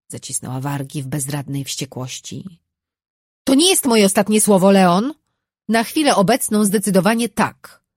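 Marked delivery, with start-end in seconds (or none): 3.5-7.8 furious threat. A narrator's reading. Wife's defiant parting threat.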